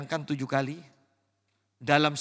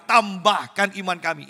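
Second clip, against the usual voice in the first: a little louder plea; disciples' unison plea; 2 semitones higher, 7 dB louder than usual. Retold or imitated. Preacher voicing the disciples pleading together, a touch louder. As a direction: say it together as one voice. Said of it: "Ini serempak".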